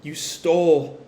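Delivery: halting dying words, broken by pauses; acted last confession, forcing out each phrase; struggling to speak. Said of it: "trying to hold on".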